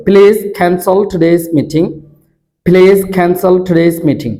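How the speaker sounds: "please cancel" drawn out very slowly with breathy stops; slow drill. Shown as a demonstration. Teacher slowly modelling the drill sentence for students. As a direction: stretch each word slowly, puffing the stops. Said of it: "এগুলো আমাদেরকে একটু খেয়াল করতে হবে".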